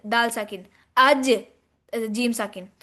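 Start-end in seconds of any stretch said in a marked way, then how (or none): 1.0-1.3 अज with a bounced final ज; अज thrown out with a popped ending; qalqala bounce. Shown as a demonstration. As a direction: release the ज of अज in a short echo. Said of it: "जिनके ऊपर कलकला करते हैं".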